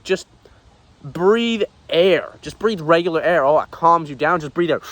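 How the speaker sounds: angry rant. Acted.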